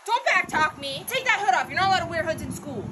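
stern scolding. Acted. Teacher scolding defiant student.

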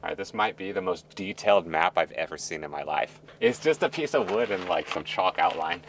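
dry, deadpan sarcasm; mock praise for the crude map; sarcastic. Real, not acted. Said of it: "You're being sarcastic".

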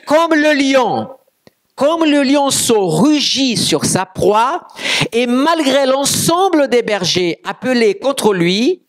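high, slow declaimed verse; scripture proclamation. Acted. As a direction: draw the verse out from the pulpit.

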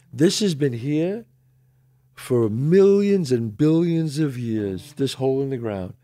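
slow, measured sincerity; retold tender proposal. Man proposing at the Grand Canyon, slow and sincere. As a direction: build gently toward a vow, unhurried. Retelling his marriage proposal.

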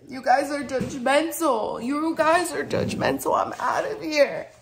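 high, loud, hammed-up protest; mock offended. Storyteller calling viewers judgmental and leaving, mock offended. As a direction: storm off in pretend outrage.

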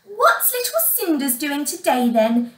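teasing stepsister, lifted in pitch. Acted. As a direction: needle her playfully. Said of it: "teased Griselda".

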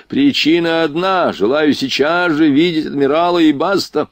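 high, peremptory demand; imperious prince, insistent. Acted. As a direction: lay down the order as final. Drunk prince demands the admiral.

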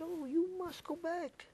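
very high, soft, drawn-out urging; high, hushed imitation of her plea; accented Belgian woman. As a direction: mimic a Belgian woman insisting. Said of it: "had a, an accent when she spoke".

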